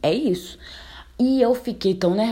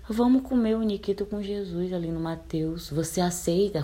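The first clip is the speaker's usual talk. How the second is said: mock romantic offer; 3 dB quieter than usual. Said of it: "Como se fosse algo super romântico".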